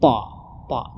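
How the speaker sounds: "ta" dark but keeping its A; emphatic T, A still heard in "ta"; balanced thick ta. Shown as a demonstration. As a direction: say "ta" heavy without turning it to O. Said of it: "vokal A-nya itu tidak boleh hilang".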